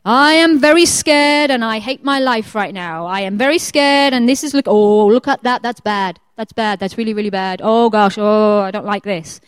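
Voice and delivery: hammed-up fretful dread; mock scared. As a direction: fret aloud, playing at being scared. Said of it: "wading through the shadow of death going".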